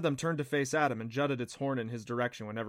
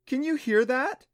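high, delighted laughing question; 12 semitones higher, 7 dB louder than usual. A narrator's reading. Clancy to Adam, delighted and laughing. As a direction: let a laugh run through it. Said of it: "she laughed".

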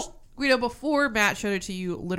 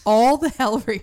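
laughing; 4 semitones higher, 8 dB louder than usual. Real, not acted. Laughing repeat of movie title.

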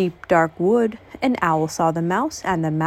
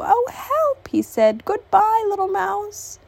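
high, panicked fox voice; scared fox; 12 semitones higher than usual. Acted. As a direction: yelp it and bolt. Fox flees in fright.

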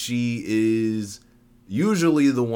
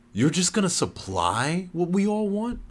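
incredulous; 10 semitones higher than usual. Acted. Zipporah questions stranger.

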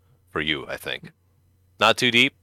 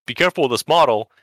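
anxious nerd; 6 semitones higher, 4 dB louder than usual. Retold or imitated. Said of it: "And he says".

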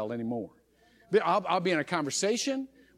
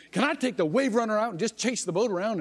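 put-on eager pleading kid; 4 semitones higher than usual. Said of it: "She says".

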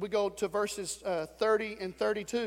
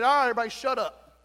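brusque command; 5 dB louder, faster than usual. Retold or imitated. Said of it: "he walked in and said".

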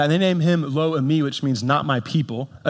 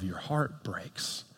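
a hushed, slow fall on heart breaks; softly heartbroken; 4 semitones lower, 14 dB quieter, much slower than usual. Acted. Pastor to the church, quietly heartbroken. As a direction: let it sink in quietly. Sin betrays someone you love.

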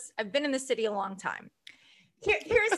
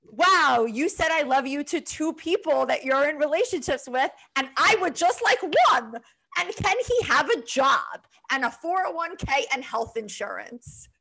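self-deprecating; 4 semitones higher than usual. Retold or imitated. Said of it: "self-deprecating reaction".

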